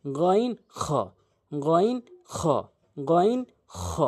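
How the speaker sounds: "গইন, খ" from the back of the throat; slow separate "গইন, খ" with throaty friction; model "গইন, খ". Shown as a demonstration. Teacher drills two letters from throat's end, throaty "গইন, খ". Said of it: "এভাবে উচ্চারণ করবেন".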